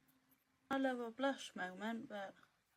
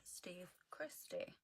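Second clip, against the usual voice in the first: whisper; 6 dB quieter, slower than usual. Acted. Whispered name in spooky story.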